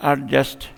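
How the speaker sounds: एडजस्ट in two separate beats; split into syllables. Shown as a demonstration. Teacher giving a two-syllable example, split into syllables. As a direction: break एडजस्ट after its first syllable. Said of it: "ये syllable कहलाते हैं, two syllable".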